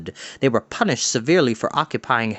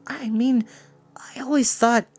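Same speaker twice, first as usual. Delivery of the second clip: high breathy unsure whisper; whispered doubt; 10 semitones higher than usual. A narrator's reading. A boy whispering his doubt to Mountrout. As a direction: half-whisper your doubt.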